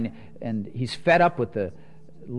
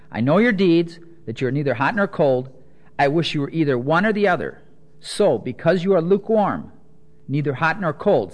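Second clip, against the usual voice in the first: scripture reading; 3 dB louder than usual. Acted. Reads scripture aloud.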